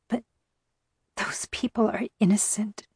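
soft, voiceless whisper; tearful whisper. A narrator's reading. Narrator voicing the tearful captive protesting to the captor, whispered. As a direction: whisper it as a hushed, pained protest. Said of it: "I whispered".

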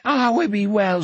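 put-on high, quavering old man in joyful tears; weeping old man. A narrator's reading. Old depot keeper kneeling before Jack, weeping with joy. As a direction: babble it out in tearful awe.

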